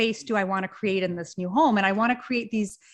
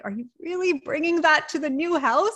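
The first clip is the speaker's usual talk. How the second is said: higher-pitched, incredulous retold question; mock disbelief; 6 semitones higher than usual. Wife to husband about his old bar, mildly incredulous. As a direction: question it with mild, playful dismay.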